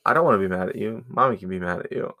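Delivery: put-on quick, blunt kid voice; a child stating the obvious, fast; matter-of-fact kid. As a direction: rattle it off like it's obvious. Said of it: "plain as day".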